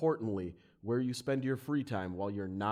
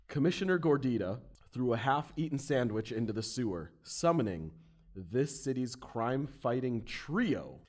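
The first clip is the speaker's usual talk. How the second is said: story narration. Acted. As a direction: set the scene like a comic narrator. Game master sets the scene.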